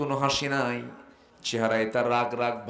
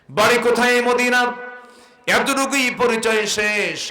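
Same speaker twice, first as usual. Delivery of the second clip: full force preaching; 10 semitones higher, 9 dB louder than usual. Real, not acted. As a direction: sing it out to the congregation. (উচ্চস্বরে ওয়াজের সুর)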